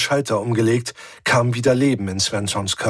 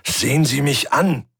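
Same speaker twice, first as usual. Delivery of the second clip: sharp raised command; commanding order; 4 semitones higher than usual. Acted. Thomas orders the weeping Svensson to look at him. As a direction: snap her out of it with an order. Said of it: "dem Befehl".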